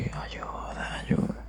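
breathy, voiceless ghostly whisper. Shown as a demonstration. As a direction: whisper it like a lost soul. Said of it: "era una voz de susurro, más o menos así".

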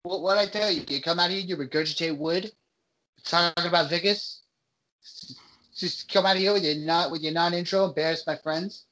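put-on tough-guy Boston accent, picking a fight. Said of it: "is my Boston accent".

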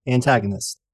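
showy rhythmic podcast host read; rhyming intro read. Acted. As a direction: perform the rhymes like a showman.

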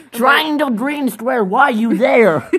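high, slow giggling chant; slow laughing singsong. Real, not acted. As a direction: drag it out while laughing. Laughing at the game screen.

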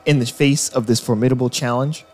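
epic trailer narration voice; grand booming space narration. Acted. Trailer narration over music.

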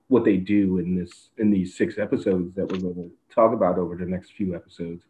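ordinary delivery

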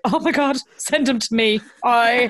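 high-pitched eager gush; excited gushing. Retold or imitated. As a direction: act out a thrilled reaction to a friend's news. Acted excited reply to friend.

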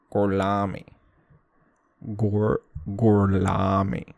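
slow, exaggerated fake Italian accent. Brad Pitt faking Italian at the premiere, slow hammy Italian accent. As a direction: ham up a bad Italian accent, slowly. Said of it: "pretending to be Italian with the fucking thickest accent".

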